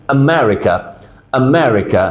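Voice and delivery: আমেরিকা with a faint "uh" before "MERica"; English-style আমেরিকা, light first vowel; light schwa demo. Shown as a demonstration. Teacher models dictionary pronunciation, আমেরিকা with a light schwa. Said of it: "হালকা আম, আ sound আছে".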